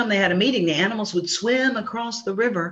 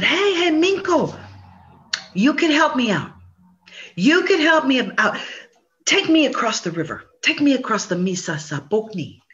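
wheedling plea; 5 semitones higher than usual. Acted. Possum begging turtle for ride.

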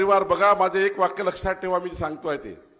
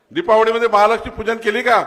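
loud question; 5 semitones higher, 7 dB louder than usual. Real, not acted. Quizzing crowd.

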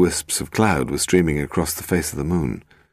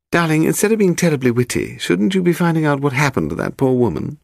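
high-pitched, exasperated wifely reproach; agitated wife; 10 semitones higher than usual. Acted. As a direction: scold him in a higher woman's voice. Narrator voices agitated wife.

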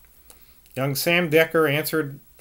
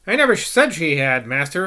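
stout West Country retort; 3 dB louder than usual. Acted. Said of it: "averred the woman stoutly".

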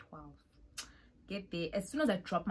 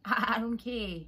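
laughing; 3 semitones higher, 7 dB louder, slower than usual. Retold or imitated. Laughing dismissal of roommate.

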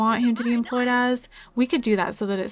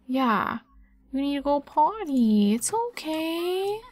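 cooing to pet; 2 semitones higher, 3 dB quieter, slower than usual. Real, not acted. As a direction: soothe the little dog gently. Cooing to the sick dog.

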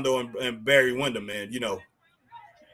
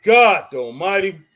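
amazed; 3 semitones higher, 6 dB louder, slower than usual. Real, not acted. Reacting to the finish.

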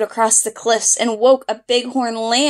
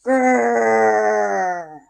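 grump. Acted. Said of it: "she grumped".

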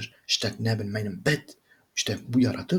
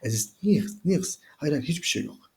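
nervous denial; 5 semitones higher than usual. Acted.

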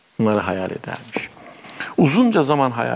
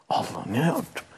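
lightly voiced girl, higher pitch; remorseful young girl; 6 semitones higher than usual. Girl who hurt the sparrow's feelings, mildly remorseful. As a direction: fret aloud with mild regret.

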